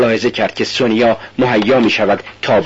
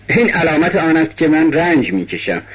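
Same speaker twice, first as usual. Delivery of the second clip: bitter laugh; 5 semitones higher than usual. Acted. Raskolnikov bitterly mocks his cross.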